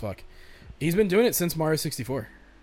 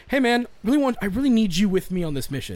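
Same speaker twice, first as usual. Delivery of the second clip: higher and louder, sugary fake-friendly plea; 8 semitones higher, 5 dB louder than usual. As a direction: lure the companion in sweetly. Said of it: "it's like".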